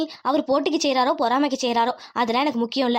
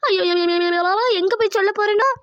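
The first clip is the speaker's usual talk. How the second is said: a hammed-up crying wail of ayyo; mock wailing lament; 3 semitones higher than usual. Lakshmi wailing alone over the jewels, hammed-up crying. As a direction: wail it like a village woman beating her chest.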